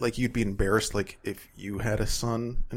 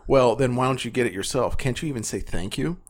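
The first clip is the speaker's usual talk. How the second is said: mildly raised retort, read out; a little louder, mock-indignant complaint; kinda loud. Annoyed son answers his mom's complaint, kinda loudly. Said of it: "I kinda said loudly".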